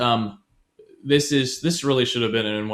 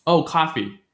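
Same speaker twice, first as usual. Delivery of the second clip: mildly acted, higher-pitched realization; casual noticing; 5 semitones higher, slower than usual. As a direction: lightly voice a sudden thought of coffee. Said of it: "think of it as, like".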